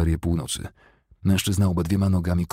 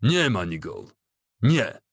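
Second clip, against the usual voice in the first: understated narrated shout, second cry higher; urgent call, only mildly raised; shouted command; 3 semitones higher, slower than usual. A narrator's reading. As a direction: cry out to stop him. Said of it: "krzyknął najgłośniej, jak potrafił".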